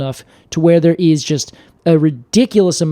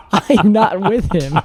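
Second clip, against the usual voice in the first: mock language lesson; slower than usual. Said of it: "we use Babbel to be able to say".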